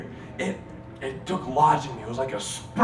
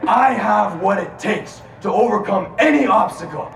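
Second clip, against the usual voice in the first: shouted affirmation; 4 semitones higher than usual. Shown as a demonstration. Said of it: "I said".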